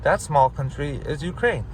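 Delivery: put-on talking down like to a child; mock patient explainer voice; slow simple explaining. Shown as a demonstration. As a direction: spell it out slowly, condescending. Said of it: "That's how you speak to retards".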